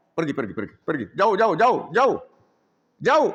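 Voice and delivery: loud repeated commands to leave; angry chief. Acted. Chief ordering the two strangers out, angry. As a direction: drive them off hard.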